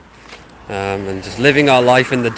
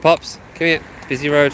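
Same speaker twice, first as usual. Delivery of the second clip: raised, higher call to the dog; 4 semitones higher, 3 dB louder than usual. Real, not acted. Owner calls his dog back from a busy road, raised call.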